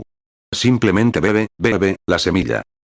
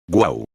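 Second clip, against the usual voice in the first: tired wind moan; 4 semitones lower than usual. Retold or imitated. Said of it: "un viento cansado que sopla".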